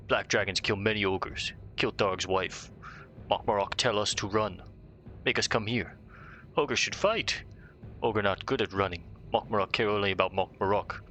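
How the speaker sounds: lightly voiced dopey ogre; a hint of a dumb brute ogre. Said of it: "I'm sure he speaks like an ogre".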